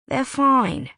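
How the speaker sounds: brushing the question off, impatient; clipped and done with it. A narrator's reading. Wes answers Riley's worried question, impatient. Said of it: "sounding impatient".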